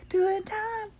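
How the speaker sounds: high breathy whisper to herself. Real, not acted. Host warming up alone before recording, whispered pep talk. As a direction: psych yourself up in a whisper.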